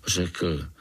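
plain reading voice

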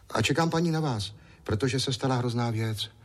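put-on high, eager small boy's voice; little boy Ondroušek. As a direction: play a chatty little boy.

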